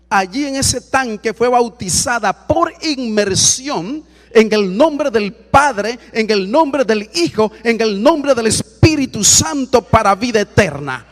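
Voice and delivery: loud, drawn-out baptismal proclamation; proclaiming. Real, not acted. Preacher proclaiming a baptism to the congregation, loud and solemn. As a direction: ring out each phrase, slow and forceful.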